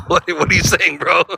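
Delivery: retold confusion, laughing; amused bafflement. Vlogger retelling his baffled reply to cab driver, amused bafflement. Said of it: "And I just was like".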